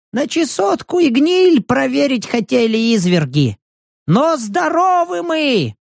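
put-on old man's voice. Old vagrant thanking the hero while hurrying away. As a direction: play the grateful fleeing old man. Old man calls over shoulder.

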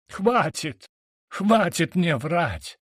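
high, slowed furious cry of хватит; furious yell. A narrator's reading. Drunk brother screams at his sister in fury, pitched high and slow. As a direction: yell it in a rage. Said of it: "завопил в бешенстве он".

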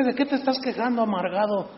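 fast teasing shout at a sourpuss; mock shout. Pastor jeering at a bitter critic, fast mock shout.

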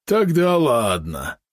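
slow, high grudging yap; yappy small dog. Acted. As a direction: concede it like a sulky little dog. Valeron grudgingly agreeing.

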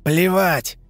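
defiant loud retort; angry shout. Acted. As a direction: spit the word back. Fighter snarls reply.

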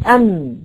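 ام ending on closed humming lips; sakin mim demo. Shown as a demonstration. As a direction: say ام and hold the closed م. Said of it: "احرك همزة الوصل". (نطق ام بميم ساكنة)

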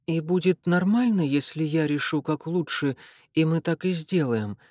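usual speaking voice

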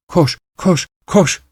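high eerie chant of run; screaming. Acted. Wife screaming at her pursuing husband, high. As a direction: urge him on, mocking. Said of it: "diye çığlıklar atıyordu".

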